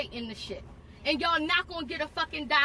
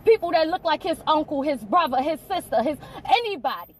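louder, heated accusation; angry tirade; 5 dB louder than usual. Real, not acted. Mother accusing officer in front of her son, heated. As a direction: lash out, piling it on.

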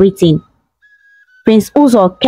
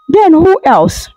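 higher-pitched, puzzled question; confused question; 7 semitones higher than usual. A narrator's reading. Princess questions someone on the phone, confused. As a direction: ask it puzzled, mildly acted. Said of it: "she asked confusedly".

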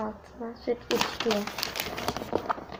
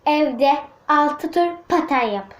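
slow dictation; slower than usual. Shown as a demonstration. Girl slowly reading the dare she wrote. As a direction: read it out slowly while writing. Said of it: "şöyle yazdım arkadaşlar".

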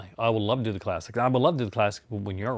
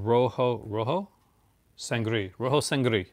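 playful put-on Spanish accent on the title, J said as H; slower than usual. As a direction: say the title like a Spaniard, half joking. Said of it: "that's my accent for tonight".

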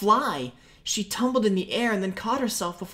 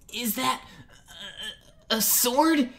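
spluttered; 6 semitones higher than usual. Acted. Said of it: "he spluttered".

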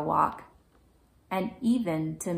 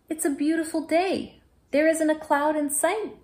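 put-on high, sunny little-girl voice, a bit louder; cheerful little girl; 10 semitones higher, 5 dB louder than usual. A narrator's reading. Girl cheerfully tells the boy the sky is clear, high and bright. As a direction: beam it out like a happy child. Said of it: "she said cheerfully".

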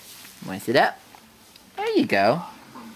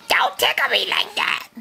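unvoiced whisper; whispered baby line; 9 semitones higher than usual. Dad whispering the baby's line.

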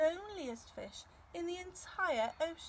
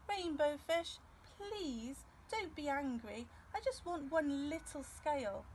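higher gentle pleading voice; little fish pleading; 4 semitones higher than usual. Acted. Little blue fish pleading for one scale, high and gentle.

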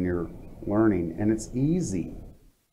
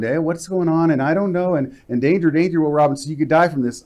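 mock-panicky inner voice, pitched higher, mildly louder; panicky inner chatter; 5 semitones higher, 3 dB louder than usual. Host voicing the mind's chatter for a listener, mock panic. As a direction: play the anxious mind half-jokingly, raising the alarm. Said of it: "chatter in the back of your head that's going".

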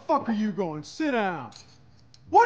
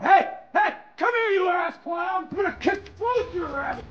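angry yell; 5 semitones higher than usual. Acted. Boss shouts at fleeing employee, angry yell. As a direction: bark him back into the room.

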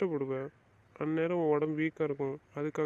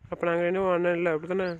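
louder, wounded protest; hurt outburst; 5 dB louder than usual. Acted. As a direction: push back hard, stung by her words. Brother hurt by her denial.

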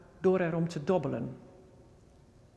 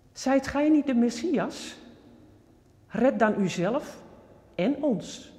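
louder, higher jeering challenge; narrated scorn with raised voice; scornful taunt; 6 semitones higher, 4 dB louder than usual. A narrator's reading. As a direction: throw it out as a taunt. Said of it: "hoonde hem".

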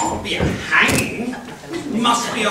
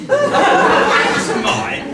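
mock indignation; 3 semitones higher, 4 dB louder, much slower than usual. Mock-offended dame.

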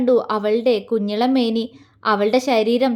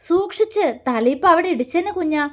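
affectionate scolding, first word higher; loving scold; 4 semitones higher than usual. Acted. Man fondly warning the girl about her head, loving scold. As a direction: chide her gently out of care. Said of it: "സ്നേഹത്തോടെ അവളെ ശാസിച്ചുകൊണ്ട്".

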